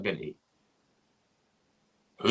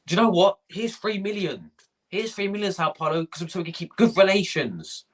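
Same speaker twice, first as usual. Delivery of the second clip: higher, chirpy voice of a pushover club executive; mock club official; 8 semitones higher than usual. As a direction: play the naive director happily handing over cash. Mocking the club's transfer chief.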